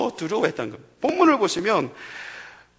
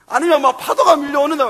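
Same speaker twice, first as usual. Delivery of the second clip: ordinary talk, nothing marked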